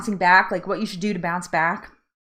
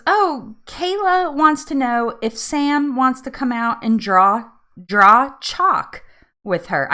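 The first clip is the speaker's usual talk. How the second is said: imitated Southern mom, higher and drawn out; Southern accent; 5 semitones higher, 4 dB louder, slower than usual. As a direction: attempt a slow Southern accent. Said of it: "Very Southern accent".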